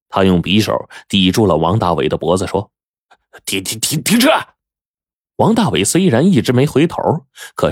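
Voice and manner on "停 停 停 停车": stammered order. A narrator's reading. Shaking robber threatening driver with knife.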